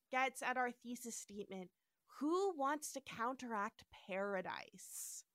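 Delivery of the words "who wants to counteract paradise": put-on southern accent. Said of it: "my southern accent".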